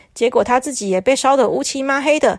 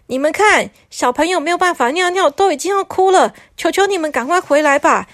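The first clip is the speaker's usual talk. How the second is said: higher, urgent envoy rising to alarm; lightly voiced panicking messenger; 4 semitones higher than usual. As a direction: warn them of disaster. Messenger warns of disaster.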